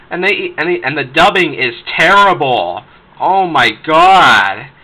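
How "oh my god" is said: very slow, loud exasperated oh my god. Real, not acted. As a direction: stretch it out in disbelief. Ranting about the dubbing.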